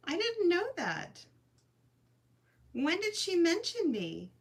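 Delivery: high, stunned and teary disbelief; can't believe she was noticed, voice up high; choked-up surprise, pitched high; overwhelmed surprise. Real, not acted. Learns a creator mentioned her.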